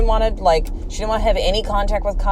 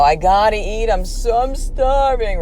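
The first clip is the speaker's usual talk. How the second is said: put-on high, louder child plea, stretched on "starving"; dramatic hungry child; 5 semitones higher, 4 dB louder, slower than usual. Boy begging parents for food at bedtime, mock-desperate whine. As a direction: mimic a kid's overblown, drawn-out complaint.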